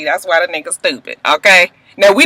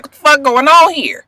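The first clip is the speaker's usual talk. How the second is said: going off; 5 semitones higher than usual. Pretend. Wife bursting in on husband, mock outraged demand. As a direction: act a fool, demanding answers. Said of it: "Jump over that couch and be like".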